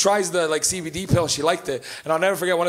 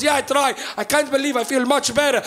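amazed mother; 6 semitones higher than usual. Retold or imitated. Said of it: "She goes".

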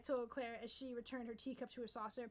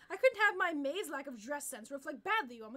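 haughty line breaking into laughter; cracking up mid-retort; laughing through the line; 7 dB louder than usual. Acted.

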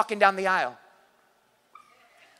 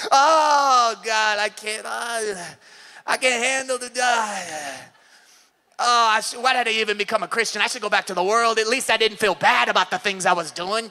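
whining; 2 semitones lower than usual. Retold or imitated. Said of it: "They start whining".

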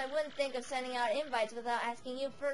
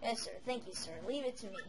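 soft raspy crone voice; raspy old hag; 4 semitones lower, 5 dB quieter than usual. Acted. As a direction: coo it like a sly old witch. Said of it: "a bit of a raspy voice with the older characters".

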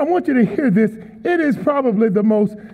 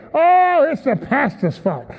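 whining churchgoer. Retold or imitated. Preacher mimicking a churchgoer blaming him, mock whine. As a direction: sulk about the pastor. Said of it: "they'll even come to church".

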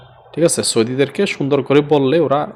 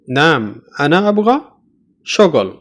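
slow teaching; much slower than usual. Shown as a demonstration. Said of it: "এটা হচ্ছে".

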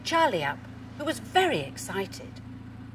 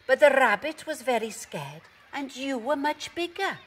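higher-pitched, explaining dog character; animated, mildly chiding animal character; Pepper; 6 semitones higher, 3 dB louder than usual. A narrator's reading. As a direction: explain firmly in a raised storybook voice. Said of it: "barked Pepper".

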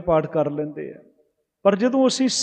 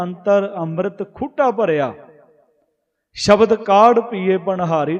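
slow scripture recitation; slower than usual. Acted. Preacher reciting gurbani verse to the congregation, slow and reverent. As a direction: chant the verse slowly, each phrase drawn out.

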